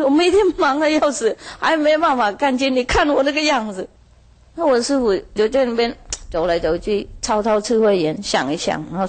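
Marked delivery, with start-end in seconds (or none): 0.0-3.9 higher whining farmer voice; a fed-up farmer pleading his case; complaining farmer. Retold or imitated. (农夫向师父诉苦，高声抱怨)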